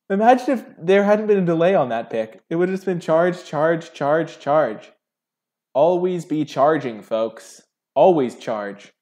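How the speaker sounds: loud, high-pitched real excitement; elated. Real, not acted. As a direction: keep crowing over the win, loud. Still celebrating the run of Charges.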